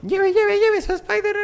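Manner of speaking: high, loud street hawker cry; hyped fairground barker. Retold or imitated. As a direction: shout it like a market vendor. Street vendor hawking Spider-Man. (pregonero de mercado muy agudo)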